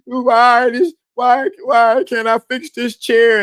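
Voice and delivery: high-pitched mock sobbing wail; crying man. Man bawling over fixing a chair, mock crying. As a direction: whine and blubber through it, hammed up. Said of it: "And you crying".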